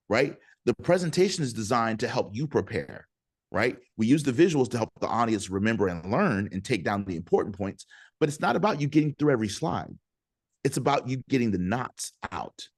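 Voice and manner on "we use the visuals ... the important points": ordinary delivery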